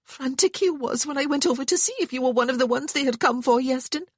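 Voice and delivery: lightly voiced Welsh woman; tearful Welsh woman, proud. A narrator's reading. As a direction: scold him through pride. Sian voiced.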